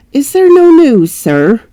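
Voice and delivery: put-on high, anxious question from the old servant. Old servant anxiously asks her master about news. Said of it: "asked anxiously".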